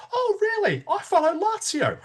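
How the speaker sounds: high mocking voice with a laugh; gleefully spring the trap with a laugh. Salesman laughing as he springs the trap on the customer.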